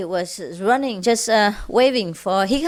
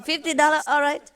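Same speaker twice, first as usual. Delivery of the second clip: higher, pushy haggling; bargaining; 5 semitones higher, faster than usual. Acted. Miser in the river haggles with boatman, pushy high bargaining. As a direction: haggle hard, pitched up. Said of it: "He's bargaining".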